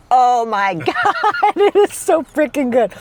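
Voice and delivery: high, loud gushing over the taste; delighted. Real, not acted. First sip of sweet coffee, thrilled gushing. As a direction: squeal with joy at the sip.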